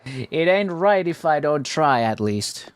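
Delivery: slow nasal character voice; nasally voice. Acted. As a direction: speak it through the nose, slowly. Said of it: "the proper nasally voice for her".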